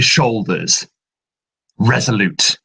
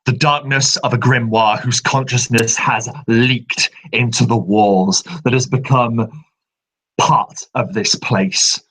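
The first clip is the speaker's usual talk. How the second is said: ordinary delivery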